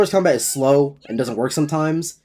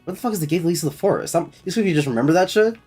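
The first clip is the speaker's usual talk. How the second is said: frustrated; 5 semitones higher, faster than usual. Real, not acted. Frustrated at quest.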